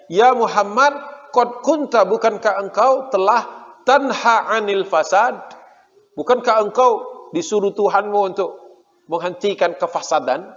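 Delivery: mock shout. Jews calling from the fort to Muhammad, mock yell. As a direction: throw the accusation up at him, half-acted. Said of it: "Jadi teriak gitu".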